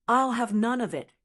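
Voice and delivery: restrained fierce refusal; almost fiercely. Acted. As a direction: push it away with mild heat. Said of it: "almost fiercely".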